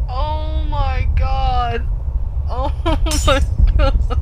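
slow, drawn-out words with a laugh; spent, breaking into laughter; winded from laughing. Real, not acted. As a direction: recover breath after a laughing fit. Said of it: "I shouldn't be laughing this much".

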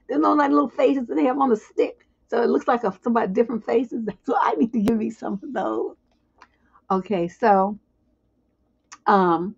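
ordinary talk

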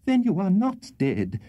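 high-pitched, overwrought cry; hysterical exclamation. A narrator's reading. Hysterical lady to wounded Tupman, exclaiming. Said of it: "ejaculated the hysterical lady".

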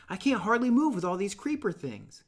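a hint of a flustered kid; lightly voiced boy. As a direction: play the chubby boy tangled in creepers. Piggy complains.

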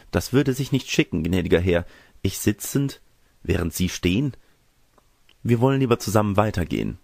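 a hint of a modest country girl; demure young girl. Girl politely declines the cavalier's offer, lightly voiced and demure.

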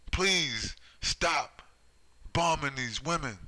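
mock pleading cry to stop the bombing. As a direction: beg them to stop, voice lifted. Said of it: "people are pleading for them".

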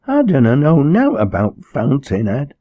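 high, loud plaintive wail in dialect; aggrieved sobbing. Acted. Troubled girl answering the minister's sermon, tearfully aggrieved. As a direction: wail it up high, hurt and protesting. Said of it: "sobbed Liz aggrievedly".

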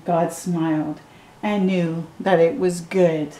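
gentle storybook read-aloud; reading to children. Acted. Adult reading a picture book to a child, gentle storytime voice.

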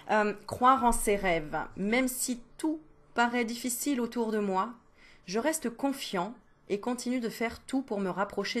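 a measured, sincere card reading; card message read. Acted. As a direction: read it like an inspiring oracle card. Reads the awakening card.

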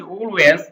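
British "Always" with the L dropped; rounded British "Always", silent L. Shown as a demonstration. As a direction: say "Always" as oh-ways, British style. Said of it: "আর ব্রিটিশরা বলে".

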